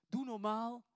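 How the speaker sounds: luide, geërgerde terechtwijzing; snauwend. Retold or imitated. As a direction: snauw het als een geïrriteerde omstander. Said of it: "mensen eromheen die zeggen". (geërgerd toegesnauwd)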